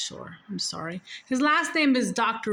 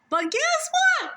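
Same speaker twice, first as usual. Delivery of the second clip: teasing reveal. Real, not acted. Storyteller teasing the twist.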